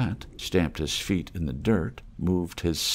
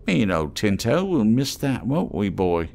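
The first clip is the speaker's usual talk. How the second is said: higher, sly haggler's voice; wheedling trader voice; 4 semitones higher, 5 dB louder than usual. Acted. Scruffy trader teasing the mole, higher and sly. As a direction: coax the stranger like a street trader. Reno talking to his dog.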